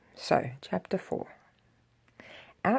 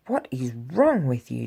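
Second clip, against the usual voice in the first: demanding; 4 semitones lower than usual. Acted. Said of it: "demanded the Grinch".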